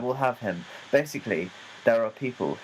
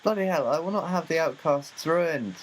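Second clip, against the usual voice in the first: higher hammed-up indignation; mock outrage; 4 semitones higher than usual. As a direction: scold a schemer theatrically.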